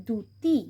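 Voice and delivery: দ্যুতি said as dyuti with no doubled d; silent ja-phala. Shown as a demonstration. Teacher showing দ্যুতি for pupils: single d. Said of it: "উচ্চারণ হবে না".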